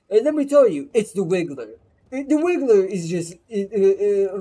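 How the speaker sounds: heated rant. Real, not acted. Heated rant about Wiggler.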